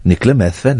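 put-on Welsh lilt; Welsh accent. Host guessing where a woman is from, Welsh accent. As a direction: say the name as if Welsh. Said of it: "I'm doing a Welsh accent".

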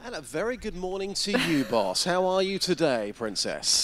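mock-suave morning greeting in a put-on voice; playful self-parody, lilting up then dropping; J-Dog impression. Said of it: "doing an impression of J-Dog".

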